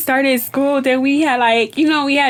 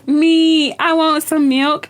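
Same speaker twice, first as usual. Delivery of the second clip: put-on loud, higher eager child; eager kids; 5 semitones higher, 3 dB louder, much slower than usual. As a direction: pipe up like an excited kid asking for milk. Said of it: "I have, like, three kids".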